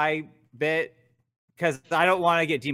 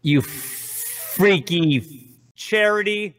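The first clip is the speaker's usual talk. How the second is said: spooky voice; much slower than usual. Acted. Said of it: "say something spooky".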